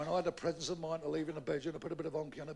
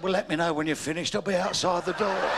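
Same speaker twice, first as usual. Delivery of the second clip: tag; 9 dB louder than usual. Acted. Wife's dismissive parting line.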